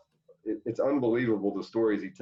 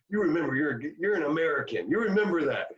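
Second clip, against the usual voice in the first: Tommy Lasorda impression; 6 semitones higher than usual. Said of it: "He goes".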